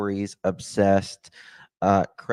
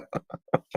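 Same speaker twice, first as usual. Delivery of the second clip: laugh; 4 dB quieter than usual. Real, not acted. Host laughs while agreeing with guest.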